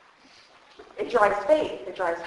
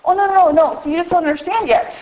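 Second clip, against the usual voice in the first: God reassuring; 5 semitones higher, 10 dB louder than usual. Acted. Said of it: "He's making it very clear".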